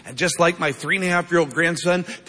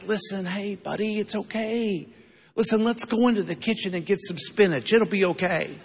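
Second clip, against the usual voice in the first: put-on hushed, gentle coaxing to a child; softly calm a scared little boy; a quiet, tender grandpa's hush; soft soothing voice; 3 semitones higher, 5 dB quieter than usual. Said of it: "Never happens".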